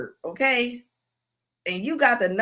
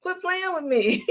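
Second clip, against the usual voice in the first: voicing the dog, laughing; 5 semitones higher than usual. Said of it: "The dog is like".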